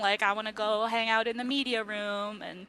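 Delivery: mildly impatient drone, brushing the speech off; lightly acted heard-it-all-before boredom; weary, bored listeners. Council members who have heard this before, wearily dismissive. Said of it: "like, they've heard this before".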